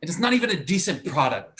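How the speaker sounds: high-pitched disgusted outburst; indignant rant. Acted. Actor complains to friend about puppet commercials, indignant rant. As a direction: let the humiliation push the pitch up.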